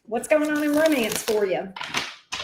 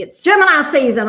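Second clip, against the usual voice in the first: excited; 3 semitones higher, 8 dB louder than usual. Real, not acted. Excited announcement to chat.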